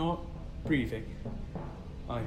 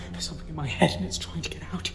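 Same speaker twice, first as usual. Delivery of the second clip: frightened whisper; much faster than usual. Acted. Ensign feels thing inside head.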